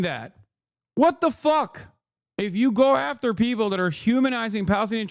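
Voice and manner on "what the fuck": high, loud disbelief; outraged. Real, not acted. Reacting to critics, high and outraged. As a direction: spit out the disbelief.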